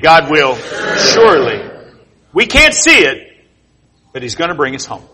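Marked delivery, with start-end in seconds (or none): 0.0-1.6 God punched with full conviction; said like you mean it. Shown as a demonstration. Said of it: "come on, say it like you mean it".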